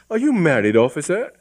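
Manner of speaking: put-on high, sweet girl voice; young woman. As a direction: ask with coy interest. Hypatia asks.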